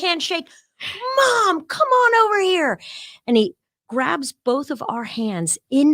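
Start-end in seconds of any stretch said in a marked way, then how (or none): 1.2-2.8 choked up. Retold or imitated. President calling mother, teller tearful.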